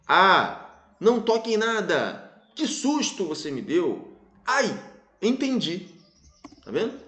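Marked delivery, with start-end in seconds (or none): 0.1-5.9 exclamatory intonation. Shown as a demonstration. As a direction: read as a string of exclamations. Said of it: "frases com entoação exclamativa".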